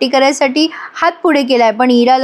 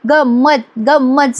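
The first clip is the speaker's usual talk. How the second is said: teasing sing-song; slower than usual. Retold or imitated. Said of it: "सगळे आता चिडवायला लागतात इराला".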